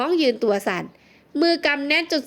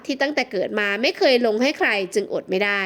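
plain reading voice

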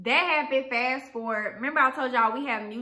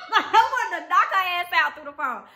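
high, loud laugh; laughing about wanting to knock her out; laughing fury; 7 semitones higher, 4 dB louder than usual. Real, not acted. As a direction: laugh through the anger. Laughing angry remark.

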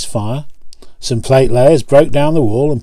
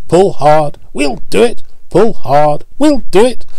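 higher, louder chant in time with the pistons; puffing effort; 7 semitones higher, 3 dB louder than usual. Acted. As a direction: chug the words like engines straining together. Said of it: "they puffed together".

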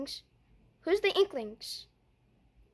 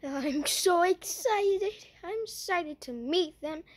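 excited; 3 semitones higher, slower than usual. Pretend. Kid playing, thrilled at visitors.

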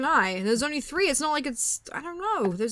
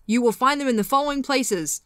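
bad Freddy Krueger voice. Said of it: "that was a terrible Freddy impression".

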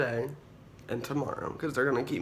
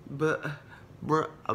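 mock confused reading; 3 semitones higher, much slower than usual. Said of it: "and they're like".

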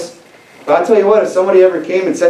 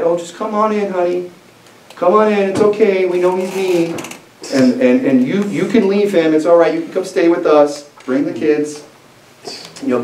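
coddling parent; 2 semitones higher than usual. Pretend. Parents welcome their married daughter home, mock cooing. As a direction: lightly coo like an overindulgent mom.

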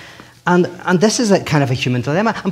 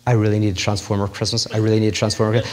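put-on child pleading; 5 semitones lower, faster than usual. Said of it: "It's like".

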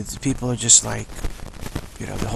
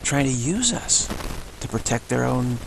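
dog thinking aloud; 3 semitones higher than usual. Retold or imitated. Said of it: "That's what the animals are thinking".

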